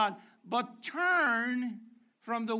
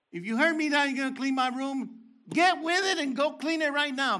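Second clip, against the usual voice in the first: mock dad scolding; 4 semitones higher, 4 dB louder than usual. Dad scolding the kid in a story.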